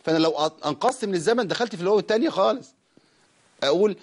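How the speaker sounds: usual speaking voice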